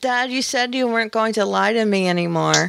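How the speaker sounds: very flat, dead-level, wooden monotone. Showing the other speaker how to deliver the line to Dad: very monotone. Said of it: "you have to be very, very monotone about it".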